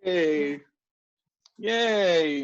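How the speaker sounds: drawn-out cheer for a right answer; real cheer. Real, not acted. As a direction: cheer the student with a long "yay". Teacher cheers a student's answer.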